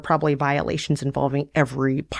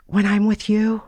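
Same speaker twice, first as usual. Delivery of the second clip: put-on lightly higher, earnest young woman; a hint of a lovesick girl, pitched up; Sarah's voice; 6 semitones higher than usual. Sarah confessing her feelings to Tanner, lightly higher earnest voice.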